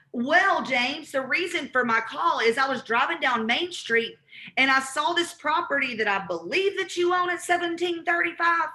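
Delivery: confident, friendly cold call pitch; caller's pitch. Shown as a demonstration. Caller explaining to James why she's calling, confident. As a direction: state it like you already know he owns it. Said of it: "now I'm gonna go into why I'm calling".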